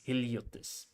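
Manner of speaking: Heliotes repeated carefully after a translation voice; copying pronunciation. Retold or imitated. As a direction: echo Heliotes as a learner copying a model. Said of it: "tells me how to pronounce things".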